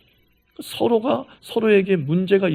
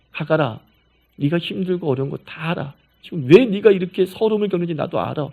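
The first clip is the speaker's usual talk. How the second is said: lower, soothing and understanding; gentle fatherly voice; 4 semitones lower than usual. Retold or imitated. God consoling Hagar before correcting her, gently. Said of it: "이렇게 얘기해 주는 거죠".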